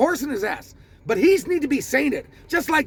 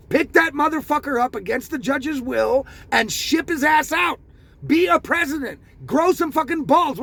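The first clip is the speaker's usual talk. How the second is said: raised, shouting angry demand; furious shout with raised pitch; angry rant; 3 semitones higher than usual. Real, not acted. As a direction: yell it at the president in disgust.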